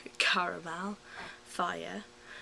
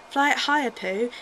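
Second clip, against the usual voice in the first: excited shout; 5 semitones higher, 13 dB louder than usual. Acted. Tigger shouts to Pooh.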